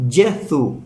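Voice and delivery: Jesús said as "yeh-soo" with no final s; Jesús as Italian Gesù; Italian pronunciation. Shown as a demonstration. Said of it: "se pronuncia".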